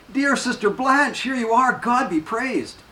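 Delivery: light up as you call her name; joyful cry. A narrator's reading. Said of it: "who shouts out with joy".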